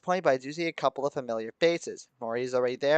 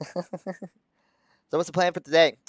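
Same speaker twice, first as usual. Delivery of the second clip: slow, leaning-in playful menace; mock intimidating; 4 semitones higher, much slower than usual. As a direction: stretch it out to intimidate Kozu.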